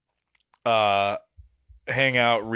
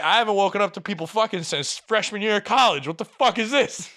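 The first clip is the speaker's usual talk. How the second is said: higher, incredulous inner rant breaking into a laugh; fed up and half laughing at the absurdity; exasperated disbelief; 8 semitones higher than usual. Retold or imitated. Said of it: "in my head, I'm like".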